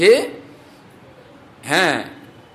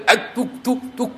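angry scolding; 5 semitones higher, faster than usual. Retold or imitated. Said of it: "তারপরে তো হেই মারে".

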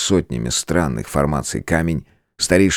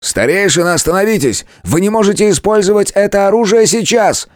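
much higher, loud urgent plea; shouting; 5 dB louder than usual. A narrator's reading. Allies shout at the elder to stop, loud and high. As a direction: yell to stop him in time.

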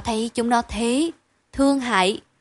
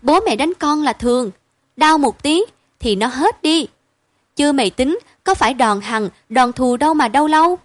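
reassuring; 3 semitones higher, 3 dB louder than usual. Acted. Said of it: "vội vàng đàn giải".

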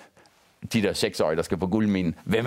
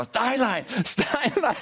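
calling a name over and over in a raised pitch, half laughing; retold shouting; much slower than usual. Holmstrøm calling out the director's name, high mock yell. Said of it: "der står og råber".

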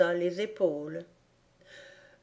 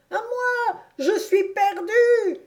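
much higher, breathless desperate call; a terrified man calling for help; panting cry for help; 5 dB louder, slower than usual. Acted. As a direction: gasp it out as you slip toward the edge. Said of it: "criait Reb d'une voix haletante".

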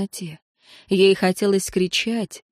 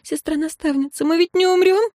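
high, frightened begging question; tearful pleading; 10 semitones higher than usual. A narrator's reading. Priestess asks her superior whether they will die, tearful. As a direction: plead upward for reassurance. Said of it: "заплакала ещё одна жрица".

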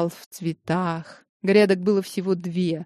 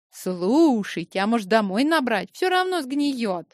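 mouth full; 8 semitones higher than usual. Acted. Greedy Lyubochka eating berries.

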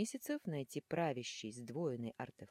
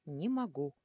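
yelled in chorus; 4 dB louder than usual. Acted. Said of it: "хором проорали демон и ангел".

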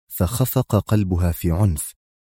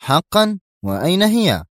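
much higher, urgent questions; eager exclamation; 9 semitones higher than usual. A narrator's reading. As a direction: grab at the news eagerly. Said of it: "هتف زيلمان في لهفة".

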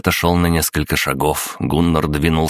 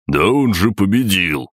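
objecting; 4 semitones higher than usual. A narrator's reading. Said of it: "возразил Ульф".

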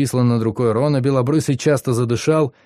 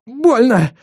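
high loud cry of pain; 12 semitones higher, 5 dB louder than usual. Acted. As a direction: cry it out through tears. Ron cries out in pain.

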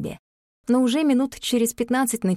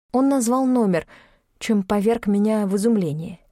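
plain reading voice

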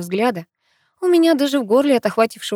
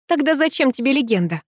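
higher-pitched, puzzled question; bewildered; 6 semitones higher than usual. A narrator's reading. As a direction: ask it at a loss. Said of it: "растерялась я".

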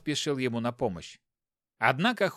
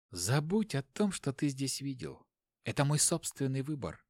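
quiet firm wife; 5 dB quieter than usual. Acted. Wife calmly confronts husband.

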